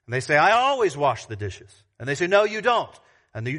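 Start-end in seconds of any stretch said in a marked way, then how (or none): 0.4-1.7 mock roommate's indignant complaint; complaining roommate. Roommate arguing over who washes the dishes, mock-indignant complaint. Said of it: "They complain about the fact". 2.3-3.0 higher-pitched mock contradiction; arguing back. Roommate answering a claim about the dishes, mock argumentative retort. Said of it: "they just start arguing".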